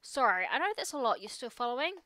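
a lightly voiced teenage girl venting; teen daughter voice. Teen daughter venting to her dad, lightly voiced. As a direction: play it as an upset teen unloading. Reading Amanda's game lines.

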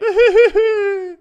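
loud, high run of giggles. Real, not acted. Streamer after telling someone to cry it out, high giggle. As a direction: burst into a high-pitched giggle.

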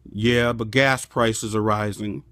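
gloomy downer. Retold or imitated. Negative person answering congratulations, gloomy. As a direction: kill the good news. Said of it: "Overly negative people".

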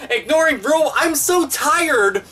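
heated rant. Real, not acted.

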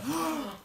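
gasp. Real, not acted. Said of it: "hold your breath challenge".

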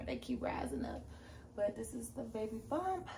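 whispered aside; unvoiced aside. Real, not acted. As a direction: whisper it to yourself. Aside about waist beads.

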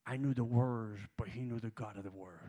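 loud, emphatic quote of the actor; preaching the actor's words loud; rising preacher fervor. Retold or imitated. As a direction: lean into it with growing fire.

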